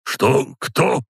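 high-pitched, startled questions; startled cry. A narrator's reading. Old count waking among people, high startled questions. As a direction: blurt it high, as if jolted awake. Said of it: "вдруг выкрикнул граф Рязанов".

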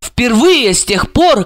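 usual speaking voice

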